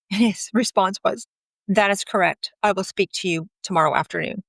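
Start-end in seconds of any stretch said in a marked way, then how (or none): 1.7-4.4 stiffly formal quote of a text. Retold or imitated. Husband's texted reply to his wife, very formal. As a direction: read it out as a measured, official reply. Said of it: "Very formal".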